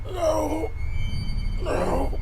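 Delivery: high, pleading refusal; horrified no. Real, not acted. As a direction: recoil in horror. Stunned refusal.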